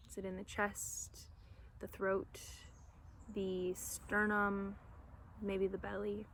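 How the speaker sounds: short phrases, spaced out with room to breathe; guided meditation. Real, not acted. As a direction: guide listeners gently into their breath, unhurried.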